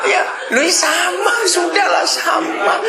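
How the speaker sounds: high, laughing "you again"; laughing retort. Pretend. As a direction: greet trouble with a laugh. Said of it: "gimana reaksinya".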